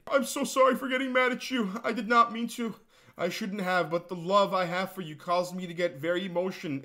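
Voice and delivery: high, simpering apologetic voice; mock lovesick fan. YouTuber mocking the fan's apology in a high simpering voice. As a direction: grovel like a pathetic admirer.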